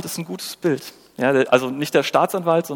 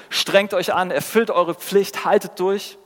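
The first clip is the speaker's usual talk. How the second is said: higher-pitched urging, item by item; mock exhortation; 5 semitones higher, slower than usual. Traditional culture exhorting struggling disciples, higher-pitched mock urging. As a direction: urge them on like a dutiful taskmaster.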